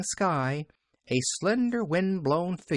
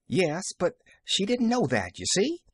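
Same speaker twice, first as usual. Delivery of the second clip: dry, stifling a chuckle; 7 semitones higher than usual. A narrator's reading. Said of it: "observed Nancy dryly, stifling a chuckle".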